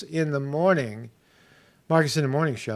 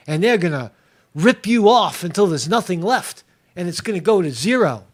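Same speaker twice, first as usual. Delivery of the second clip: higher, ranting mock angry viewer; angry ranter; 5 semitones higher, 4 dB louder than usual. Imitating an angry commenter ranting about the economy, mock rage. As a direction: rant like a furious doomsayer. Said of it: "some people might say".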